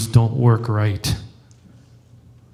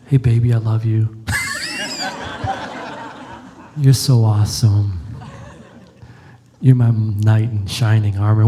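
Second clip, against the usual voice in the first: mock wife voice; 3 semitones lower than usual. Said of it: "I don't know how to do my wife's voice".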